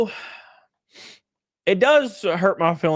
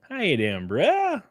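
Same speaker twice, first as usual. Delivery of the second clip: playful greeting; 5 semitones higher, slower than usual. Shown as a demonstration. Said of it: "repeated greeting variants".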